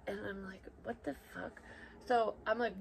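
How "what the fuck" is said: soft, higher, under-the-breath disbelief; hushed shock. Retold or imitated. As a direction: act out a stunned reaction, kept quiet.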